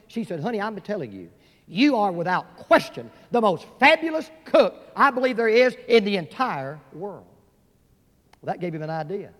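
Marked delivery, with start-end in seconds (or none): 0.4-7.3 enthusiastic praise. Acted. Wife praises husband's cooking.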